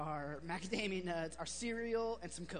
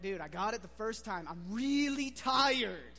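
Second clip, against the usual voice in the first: exasperated, tired; 7 dB louder than usual. Retold or imitated. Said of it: "and I was like".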